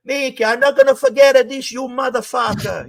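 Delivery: high, fast, furious vow of revenge; wounded man's threat. Retold or imitated. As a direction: spit out the threat while clutching your chest. Shot guy vows revenge.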